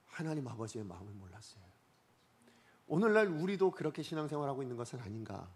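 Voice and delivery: ordinary talk, nothing marked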